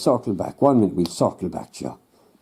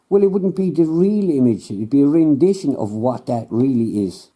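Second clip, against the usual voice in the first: patient, condescending scientist, pitched a touch higher; lightly voiced know-it-all scientist; smug scientist; 4 semitones higher than usual. Scientist explains rendition.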